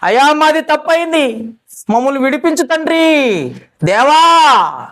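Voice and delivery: imitating wailing plea. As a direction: wail it out, dragging the last దేవా. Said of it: "మళ్ళీ ఏడ్చుకుంటా".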